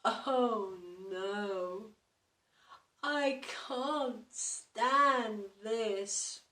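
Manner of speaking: very slow, drawn-out despair; very slow worn-out moan; weary complaint. Acted. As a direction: stretch it out, utterly exhausted. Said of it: "Mister Bear said".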